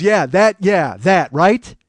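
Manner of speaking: loud, high, thrilled "yeah, that, right?"; a director who's just found the one; excited approval. Retold or imitated. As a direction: director hyped after the audition. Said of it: "the director goes".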